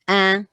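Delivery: "ah" as nasal French "an"; angry goose sound. Shown as a demonstration. Teacher reads A I N, angry goose sound. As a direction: honk "ah" through the nose. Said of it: "what I call the angry goose sound".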